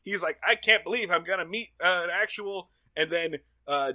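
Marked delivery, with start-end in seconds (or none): 0.4-2.7 retold giddy excitement, higher and louder; imitating someone thrilled; super hyped. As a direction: gush like an eager fan. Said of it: "super hype".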